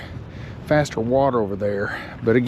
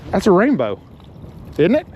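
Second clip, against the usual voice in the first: excited; 10 semitones higher than usual. Real, not acted. Fish hammers the bait.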